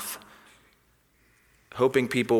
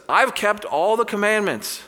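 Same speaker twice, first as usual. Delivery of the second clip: boasting; 10 semitones higher, 3 dB louder than usual. Retold or imitated. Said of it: "comes boasting to Jesus".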